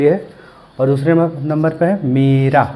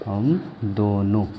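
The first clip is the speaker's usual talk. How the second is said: हम दोनों very slowly and softly, a gap after हम; slow dictation; 6 semitones lower, 8 dB quieter, much slower than usual. Shown as a demonstration. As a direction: dictate हम दोनों word by word, low and drawn out. वही शब्द धीरे दोहराना. (हम दोनों धीरे-धीरे, रुककर बोलें)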